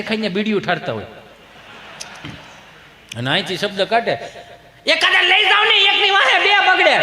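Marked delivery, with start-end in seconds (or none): 4.9-7.0 high-pitched mock scolding; scolding woman. Mother complains about the children at mealtime, high scolding. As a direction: rail like an exasperated mother.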